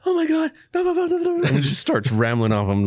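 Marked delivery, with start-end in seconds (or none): 0.1-1.5 high gushing imitation of a chatty teen; excited teen daughter. Father imitates his daughter rambling excitedly after a visit. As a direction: gush like a daughter back from a friend's. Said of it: "daughter comes home, rambling".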